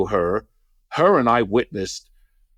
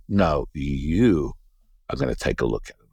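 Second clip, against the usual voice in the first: low, firm mother voice; imitated insistent mother; 7 semitones lower than usual. Mother ordering him to look at her foot, low insistence.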